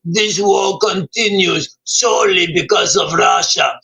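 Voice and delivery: a slow, lightly put-on Zelensky read; lightly voiced Ukrainian president, slowed and earnest; a hint of Zelensky giving a solemn speech. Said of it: "That was my best Zelensky voice".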